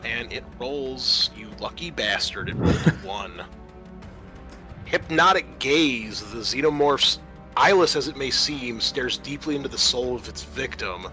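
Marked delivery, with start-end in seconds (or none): 4.9-11.1 game master's measured, theatrical read-out; dramatic rules reading. Acted. Game master reading an alien attack to players, dramatic narration.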